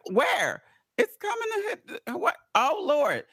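high, rushed mock panic; panicked friend. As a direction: play the scared stoned friend. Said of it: "I said".

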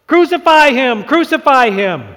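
high, loud repeated shout; shouting crowd. A narrator's reading. Preacher voicing the mob demanding crucifixion. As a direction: yell it as the furious mob. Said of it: "they kept shouting".

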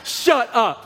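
shouting in shocked disbelief; incredulous shout. Retold or imitated. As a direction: yell it like you can't believe the news. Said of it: "it's almost like she's saying".

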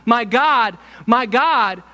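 high, loud plea to God; anguished cry. Acted. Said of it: "when he said to God".

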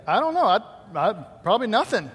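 playfully voiced daughter; daughter's reply. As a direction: imitate a kid's noncommittal answer. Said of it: "it was like this".

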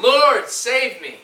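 slow, loud, high cry for help. Acted. Sinking Peter cries to Jesus, crying out. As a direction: call out drawn-out and high. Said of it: "he cried".

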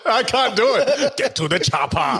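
put-on a light go at an Austrian Arnold accent. Co-host showing he can't do Arnold, in a mock Austrian accent. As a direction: quote the chopper line in a hammed-up Austrian accent. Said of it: "I can't say anything else in that accent".

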